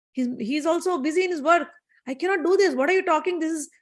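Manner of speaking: lightly voiced affronted loyal wife; indignant woman. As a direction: refuse him, mildly scandalized. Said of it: "She's like".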